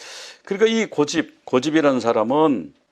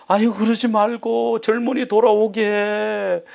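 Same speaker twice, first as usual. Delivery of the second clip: drawn-out, higher-pitched mock entreaty; pleading; 5 semitones higher, slower than usual. Villagers beg the young man to turn back, pleading. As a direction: villager imploring, words stretched out slowly. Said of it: "막 그렇게 애원하기도 하고".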